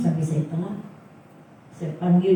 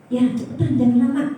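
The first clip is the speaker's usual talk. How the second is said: retold impatient order, raised a little; a bit fierce; 4 semitones higher, 3 dB louder, faster than usual. Teacher rushing the man borrowing a Bible, a bit fierce. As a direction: hurry them along with mock sternness. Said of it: "agak galak karena temannya".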